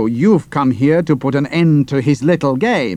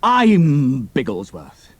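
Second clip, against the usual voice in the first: cold contempt; 3 dB quieter, slower than usual. Acted. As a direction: spit it out softly with contempt. Hero unmasks himself to traitor.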